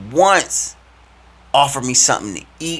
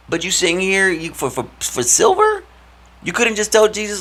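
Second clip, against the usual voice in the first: incredulous; 10 semitones higher than usual. Real, not acted. Incredulous at betrayal.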